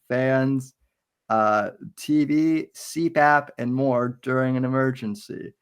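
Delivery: measured, scripted promotional read; sponsor ad read. Real, not acted. Host reading a generator sponsor to listeners, ad-read delivery. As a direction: read it out like a live ad spot.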